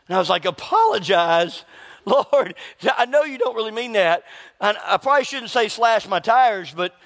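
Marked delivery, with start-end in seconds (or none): 0.5-4.2 mock disbelief. Man protesting to the Lord about apologizing, mock disbelief. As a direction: balk at the order, half laughing. Balking at God's instruction.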